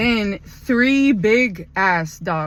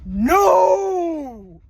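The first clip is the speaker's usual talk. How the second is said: loud, higher commanding no; firm no; 6 semitones higher, 5 dB louder than usual. Retold or imitated. Stopping the loose dog, loud firm command. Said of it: "So then I go".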